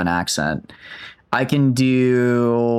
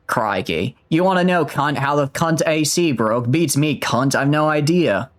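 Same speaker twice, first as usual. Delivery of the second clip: sweary mock-Aussie accent; Australian accent; 3 semitones higher than usual. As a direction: do a broad Australian accent, lifted in pitch. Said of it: "what if we try Australian now?".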